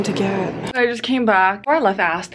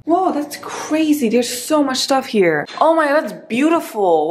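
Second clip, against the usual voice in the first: real amazement; 4 semitones higher than usual. Real, not acted. Vlogger touring her hotel room, amazed.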